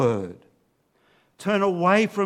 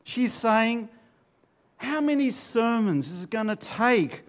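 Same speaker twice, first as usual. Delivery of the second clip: crying out; 4 semitones higher than usual. Retold or imitated. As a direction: call out to the foolish, urging them. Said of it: "when she cries out".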